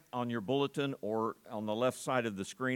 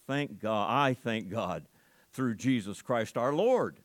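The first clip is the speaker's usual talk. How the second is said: joyful exclamation; 2 semitones lower than usual. Acted. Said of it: "what is the next statement".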